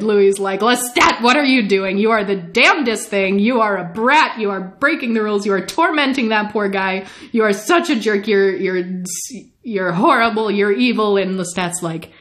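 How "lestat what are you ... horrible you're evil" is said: mock-livid tirade, punching the insults; livid scolding. Louis berates Lestat for tormenting a man, mock-livid scolding. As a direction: scold in acted exasperation, insult after insult. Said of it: "Louis is livid".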